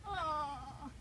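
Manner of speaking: shrieking from the freezing shock; in ice cold water. Real, not acted. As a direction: scream and laugh as cold water hits. Ice water poured over her.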